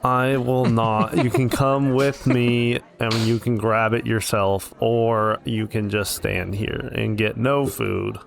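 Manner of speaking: slow, deliberate no; mock-stern, slow, teasing no; firm playful refusal. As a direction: drag out the refusal to tease a friend. Refusing friend's food request.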